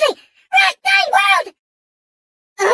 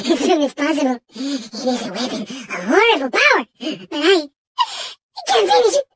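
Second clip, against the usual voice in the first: unhinged, melodramatic game villain; theatrical villain; 5 semitones lower than usual. Acted. Mad villain Engine pleading with Crash for plutonium, melodramatic. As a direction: play a volatile mad villain, swinging between scheming and wailing. Same character voice.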